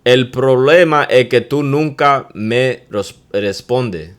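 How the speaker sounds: loud, slow Mira, then a slow complaint; arguing complaint. Shown as a demonstration. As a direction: complain to your partner loudly. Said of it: "You can say".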